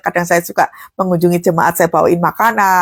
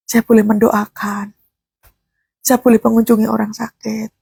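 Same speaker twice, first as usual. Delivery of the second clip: thankful prayer in the car. Retold or imitated. Pastor retells praying alone in the car, hushed and tender. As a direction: breathe it out like a private prayer. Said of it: "saya di mobil itu suka nangis".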